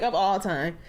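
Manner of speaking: laughing while echoing her own words; giggling through the repeat. Retold or imitated. Host laughing as she repeats her praise to the guest. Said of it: "I'm like".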